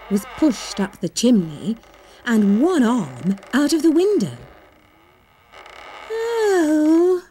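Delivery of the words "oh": pained moan, higher pitch. Acted. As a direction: moan as if squashed in. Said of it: "she moaned".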